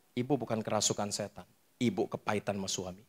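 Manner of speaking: low, soft reassurance, retold; quiet, steady pastoral aside; calm counselling. Retells calmly counselling the shouting woman.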